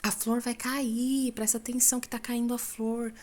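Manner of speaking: high urgent call to the brothers; calling out urgently. Retold or imitated. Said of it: "E eu falava".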